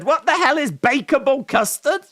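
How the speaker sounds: high, loud disbelieving squeal; shocked squeal. Real, not acted. Disbelief at odd flavor.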